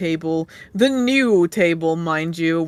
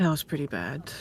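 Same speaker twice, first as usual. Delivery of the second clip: worn out, exhausted, tired-sounding voice; 3 semitones lower, 9 dB quieter than usual. Voicing a character who scratches his beard and speaks, sounding exhausted. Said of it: "He says he sounds exhausted".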